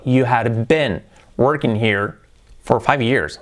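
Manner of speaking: slow, careful teacher model; slow model sentence. Shown as a demonstration. Teacher models the past sentence slowly for students. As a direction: say each word slowly for learners.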